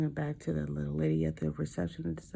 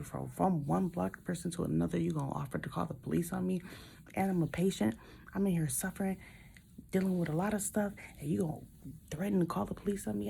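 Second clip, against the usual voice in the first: retold rising outrage; 3 semitones higher, faster than usual. Patient confronting the old guard over police, indignant rising protest. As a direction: build the outrage line by line.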